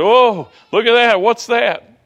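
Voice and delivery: high-pitched mock alarm; acted-out fright, voice jumping high; imitated frightened cry. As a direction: cry out loudly as if startled by a sight. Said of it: "you know, they cried out".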